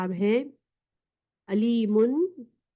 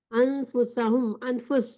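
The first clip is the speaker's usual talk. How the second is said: syllable by syllable, slowly; slow, careful Quranic reading; slow recitation; much slower than usual. Shown as a demonstration. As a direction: spell it out in sound for the students. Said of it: "teacher reads Quranic word".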